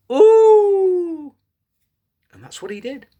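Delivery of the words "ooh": loudest high howl; loud wolf howl. Shown as a demonstration. Storyteller howls as loud as possible with the children. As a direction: throw the howl out as loud as you can. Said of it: "as loud as you can".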